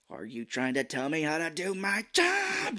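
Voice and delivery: imitating a boss blowing up, rising pitch; mock angry yell. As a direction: build to an indignant yell on the last word. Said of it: "he's, like, yelling and shit".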